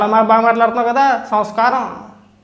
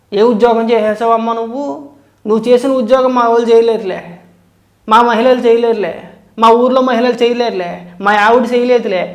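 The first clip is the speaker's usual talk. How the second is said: mocking sarcasm. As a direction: parrot his mocking jibes back at him. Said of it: "ఎంత వ్యంగ్యంగా మాట్లాడుతున్నాడో". (వెటకారంగా అనుకరిస్తూ)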